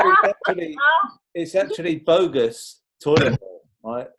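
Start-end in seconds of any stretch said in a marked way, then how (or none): 0.1-0.8 high, laughing start. Real, not acted. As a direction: burst out laughing on it. Laughing at the bogus roll.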